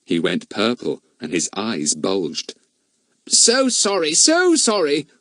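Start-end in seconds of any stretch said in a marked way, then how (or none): 3.3-5.1 hasty apology. Acted. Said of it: "said Fatty hastily".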